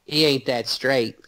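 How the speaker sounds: Southern drawl impression. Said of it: "That's spot on".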